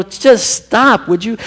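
exasperated husband. Retold or imitated. Husband voiced impatiently.

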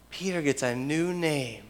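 softly, letting it sink in; hushed repetition. Real, not acted. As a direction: say it quietly and reflectively. Repeated softly for reflection.

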